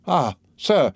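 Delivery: high-pitched, shocked exclamation; exclaiming. A narrator's reading. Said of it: "exclaimed Madame de Villefort".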